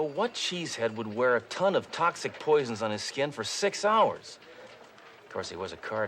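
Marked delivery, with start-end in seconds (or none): 1.7-4.4 disbelieving high yelp of a question; incredulous. Acted. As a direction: pitch leaps way up on the last word. Scoffing at far-fetched theory.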